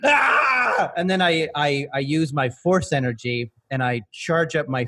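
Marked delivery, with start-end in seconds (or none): 0.0-0.9 high drawn-out villain cry; villainous yell. Acted. Belpatron after naming himself ever-living, high triumphant cry. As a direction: cap the proclamation with a high yell. Villain crowns own proclamation.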